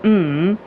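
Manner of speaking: short hummed "mm" with a clear tune; a different-meaning hum; tonal "mm". Shown as a demonstration. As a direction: hum "mm" to mean something. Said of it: "just the tone of".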